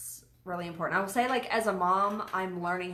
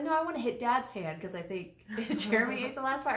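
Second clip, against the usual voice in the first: put-on high, kid voice with a laugh; the boy insisting on hitting Dad's hand; imitating her son; 4 semitones higher than usual. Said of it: "he's like".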